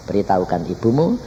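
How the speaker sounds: lightly voiced God, low in pitch; low, measured divine instruction. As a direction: speak as God giving word, restrained. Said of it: "Tuhan ngomong sama saya".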